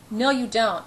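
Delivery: firm stress on "No"; emphatic, contradicting "No" with falling tune. A narrator's reading. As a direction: lean on "No" emphatically. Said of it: "he repeats emphatically".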